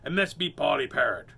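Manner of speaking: loud pirate hail; calling out. Acted. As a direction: hail the mermaid from the boat. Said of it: "called out".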